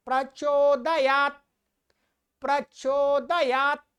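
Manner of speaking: प्रचोदयात intoned and stopped on 't'; no vowel after the last t of प्रचोदयात; ending on T. Shown as a demonstration. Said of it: "त पर खत्म करना है". (प्रचोदयात, त पर खत्म)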